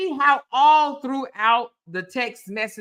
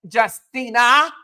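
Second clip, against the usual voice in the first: voicing Cora. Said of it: "is what Cora is telling him".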